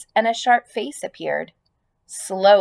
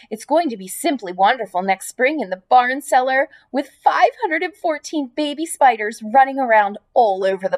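fast, higher, urgent pig voice; eager protest; 3 semitones higher than usual. Acted. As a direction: reassure her in a rush.

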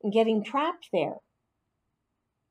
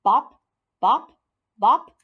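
bopping sound; 6 dB louder, slower than usual. A narrator's reading. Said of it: "I heard a new sound".

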